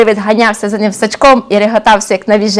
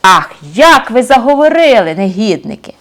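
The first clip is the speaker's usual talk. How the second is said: гнівно, вище й гучніше, повільно; загрожуй, мов стара велетенська споруда; розлючений млин; 7 semitones higher, 4 dB louder than usual. Acted. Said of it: "заскрипів він сильною силою". (млин лютує на розбійників)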